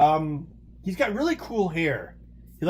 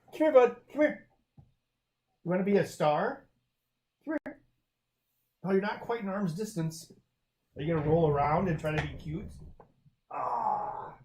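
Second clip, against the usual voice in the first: coaxing the cat; 4 semitones higher than usual. Real, not acted. Calling cat over to camera.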